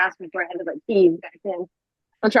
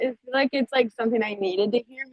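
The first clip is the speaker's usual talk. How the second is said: out of breath. Real, not acted. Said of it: "I'm kinda honestly out of breath on this walk".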